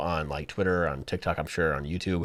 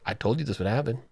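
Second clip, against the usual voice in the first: cool, unbothered; the kid calmly telling the teacher; faster than usual. Retold or imitated. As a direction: state it calmly like it's obvious. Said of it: "he was so calm".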